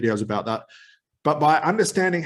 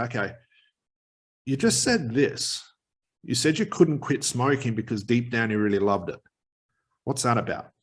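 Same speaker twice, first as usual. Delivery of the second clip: slowing down. Shown as a demonstration. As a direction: drag it out with long pauses. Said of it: "you can see I'm slowing down my tone".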